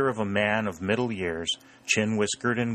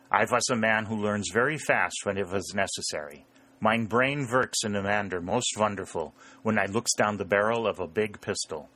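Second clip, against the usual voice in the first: put-on lightly German-accented old-country farmer; a hint of droll German farmer; wily German farmer. German farmer, voiced by narrator.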